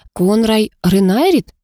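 ordinary delivery

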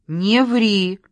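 loud, sharp "не ври"; sharp disbelief. A narrator's reading. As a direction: cut her off in disbelief. Sister disbelieving outburst. (резко, не веря)

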